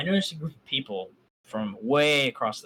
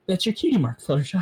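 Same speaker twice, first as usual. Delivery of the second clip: louder, higher, bursting with joy; beaming with ecstasy; 6 semitones higher, 6 dB louder than usual. A narrator's reading. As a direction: announce it like the best news ever. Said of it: "beaming with ecstasy".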